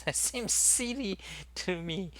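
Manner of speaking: laughing it off as silly; amused laugh while talking. Real, not acted. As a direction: chuckle through the words. Laughing at Minecraft boxes.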